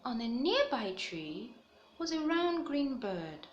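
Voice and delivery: put-on lively storybook read-aloud for young listeners; reading to children. A narrator's reading. Teacher reading a picture book to the class, animated storytelling. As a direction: tell it brightly, like story time.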